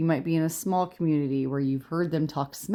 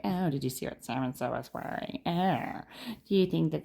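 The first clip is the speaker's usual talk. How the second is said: gossipy parent. Retold or imitated. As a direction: mildly mimic a gossipy school parent. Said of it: "gossipy things".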